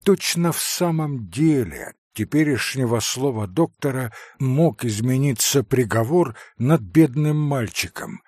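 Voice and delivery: ordinary delivery, nothing marked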